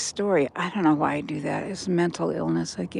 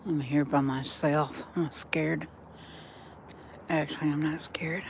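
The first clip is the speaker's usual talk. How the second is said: whisper; 3 semitones lower, 7 dB quieter than usual. Real, not acted. Alone at night, reassuring self.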